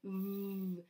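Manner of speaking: a long buzzed vvv with lips on teeth; buzzing V sound. Shown as a demonstration. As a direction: vvv buzz. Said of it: "Make that sound again".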